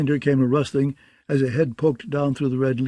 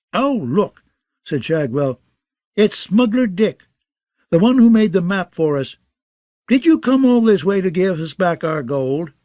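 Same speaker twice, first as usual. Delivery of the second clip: mocking jester; 5 semitones higher, 4 dB louder than usual. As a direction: toy with the wounded man. Jester mocking wounded Dick.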